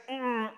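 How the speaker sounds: short strained hum; pinching effort noise. Acted. Husband pinching his praying wife, imitated strained hum. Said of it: "empiece su marido a pellizcarla".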